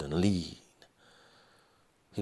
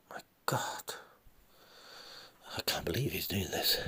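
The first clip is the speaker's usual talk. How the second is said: softer whispered disbelief; shocked whisper; 7 dB quieter than usual. Acted. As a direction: breathe it out in shock. Son in shock.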